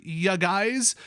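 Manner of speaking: playful Wisconsin accent "ya guys"; "ya guys" with a broad Wisconsin lilt. Shown as a demonstration. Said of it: "Get out your Wisconsin accent bingo card".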